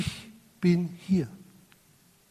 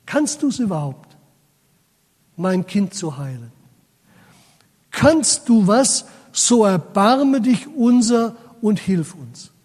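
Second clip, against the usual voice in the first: pleading father. Acted. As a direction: beg for help as a worried father. Voicing the desperate father.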